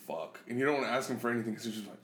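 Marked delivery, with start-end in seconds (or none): 0.1-0.4 low, soft curse to yourself; hushed dread. Retold or imitated. Son recalling dad going quiet, hushed curse. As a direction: imitate uneasy quiet cursing. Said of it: "that's when he gets quiet, you're like".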